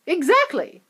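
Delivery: whisper. A narrator's reading. Wonka answers.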